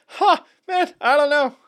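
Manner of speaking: high-pitched pretend cluelessness; mock uncertainty. Host jokes to co-host about an obvious answer, high mock uncertainty. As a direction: squeak it out as if stumped, joking. Joking pretence of not knowing.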